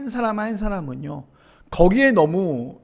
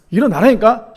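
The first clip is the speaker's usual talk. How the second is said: retold insistent wake-up order; insistent parent; 6 dB louder than usual. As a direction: press the order like an exasperated parent. Parent repeats order to reluctant son.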